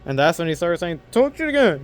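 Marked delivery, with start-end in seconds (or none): 1.1-1.8 high, sneering provocation; taunting dare. Retold or imitated. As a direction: goad him into swinging. Defender taunts gang member.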